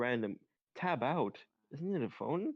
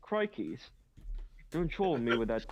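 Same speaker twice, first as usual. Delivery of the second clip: attempted British accent; 3 dB louder than usual. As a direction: launch into a mock British telling-off. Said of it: "whenever I wanna do a British accent".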